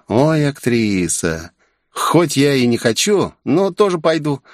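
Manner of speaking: put-on a touch of a huffy girl; snorting. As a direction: sneer at the actress and go. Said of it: "фыркнула Джефф".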